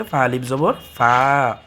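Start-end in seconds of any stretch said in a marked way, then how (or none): 0.0-0.2 ফা with its aa lengthened; one-alif stretch. Shown as a demonstration. Teacher explaining empty alif after zabar, vowel stretched. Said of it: "তাহলে এক আলিফ টান হবে".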